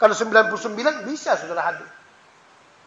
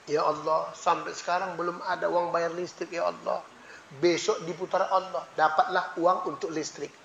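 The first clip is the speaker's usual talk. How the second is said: soft, low, pleading prayer; humble night prayer; 6 semitones lower, 11 dB quieter than usual. Retold or imitated. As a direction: plead quietly, much lower and softer. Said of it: "malam kita berdoa". (doa malam yang lirih dan memelas)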